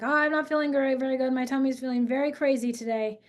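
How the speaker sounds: mock child whine; son's complaint. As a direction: play the son with a sore tummy. Voicing her son's complaint.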